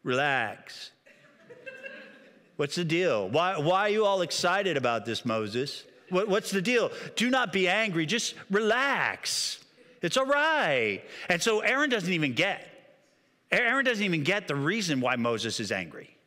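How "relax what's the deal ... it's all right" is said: slow and lazy, shrugging it all off; stoned surfer dude. Retold or imitated. Aaron brushing off Moses's anger, a mellow stoner surfer. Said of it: "I picture him like one of these surfer dudes".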